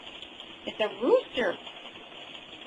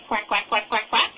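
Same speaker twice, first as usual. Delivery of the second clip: duck quack. Shown as a demonstration. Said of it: "What does the ducky say?".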